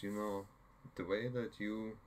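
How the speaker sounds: put-on a faint, butchered Swedish accent; bad Swedish accent. Inga praising Hawkeye, in a slight Swedish accent. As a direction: lightly attempt a Swedish accent. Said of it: "I'm butchering a Swedish accent".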